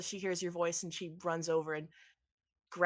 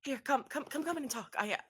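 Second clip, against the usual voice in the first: lightly voiced anxious wife; 3 semitones higher than usual. GM voices Imelda.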